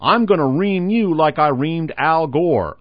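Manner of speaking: mock Texan bluster, drawn out slow; lightly done Texas drawl threat. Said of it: "in an eerily accurate Texas drawl".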